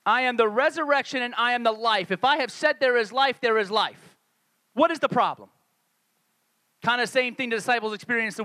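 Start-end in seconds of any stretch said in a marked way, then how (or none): 0.0-5.5 exasperated rebuke. Acted. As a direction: take them to task with measured emphasis. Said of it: "the way I creatively hear it when I read".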